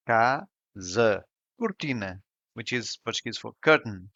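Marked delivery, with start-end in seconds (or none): 0.1-1.2 "Casa" stressed on ka, open first A, shut final a; Portuguese word. Shown as a demonstration. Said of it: "the first A is open and the other one is shut". 1.6-2.2 "Cortina" stressed on ti, O and A shut; Portuguese word. Shown as a demonstration. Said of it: "The stressed syllable is in T".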